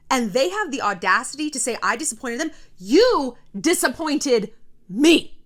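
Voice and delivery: righteous indignation. Pretend. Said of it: "I want you to be like".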